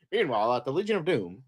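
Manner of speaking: playful narrator impression; mock cartoon announcer. Imitates cartoon announcer scene transitions.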